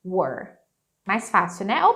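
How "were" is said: we're said like were, one syllable. Shown as a demonstration. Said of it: "você pode falar assim". (we're pronunciado como were)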